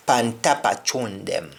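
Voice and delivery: "Pantapa chun them" with chun like choon; Patois pantapa chun. Shown as a demonstration. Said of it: "pantapa hits".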